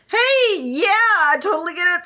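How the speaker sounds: high, apologetic mock voice; mock-polite youth apologising to a grumpy villager; sheepish apology. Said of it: "Lan Xishui's like".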